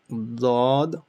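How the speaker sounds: dod pressed on the left; left-side dod. Shown as a demonstration. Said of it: "Either you could do left side".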